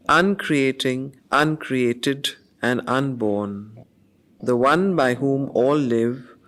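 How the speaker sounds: measured, solemn verse reading; poem recitation. Acted. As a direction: read each phrase as sacred verse, pausing between.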